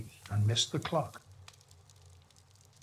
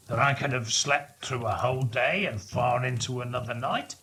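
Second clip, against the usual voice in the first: Scrooge; 3 semitones lower than usual. Acted. Scrooge voiced in read story.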